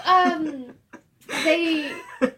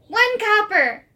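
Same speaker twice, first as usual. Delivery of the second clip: put-on little girl voice; 9 semitones higher, 9 dB louder than usual. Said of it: "she goes".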